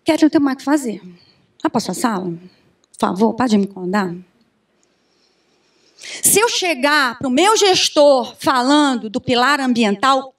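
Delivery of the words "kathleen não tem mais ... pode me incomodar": dismissive boss. Retold or imitated. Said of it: "o que que ele ia falar pra mim".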